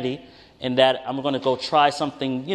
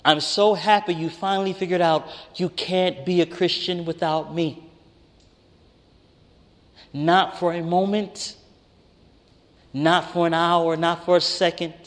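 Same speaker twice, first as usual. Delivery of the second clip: tender voice of God; 3 semitones higher than usual. Retold or imitated. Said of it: "My Father in Heaven said".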